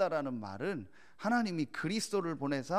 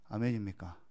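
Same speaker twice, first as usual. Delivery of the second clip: ordinary talk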